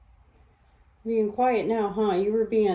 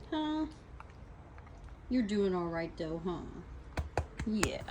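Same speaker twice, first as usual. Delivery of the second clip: soft hushed pet talk; 4 semitones higher, 9 dB quieter than usual. Real, not acted.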